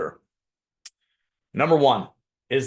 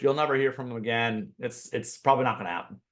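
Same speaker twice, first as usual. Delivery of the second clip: ordinary talk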